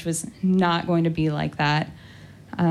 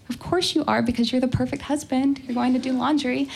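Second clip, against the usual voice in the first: higher-pitched, lightly gushing thought; doting inner gush; 5 semitones higher than usual. Retold or imitated. Newlywed wife admiring her husband in her head, higher doting voice. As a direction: mildly gush over the perfect husband.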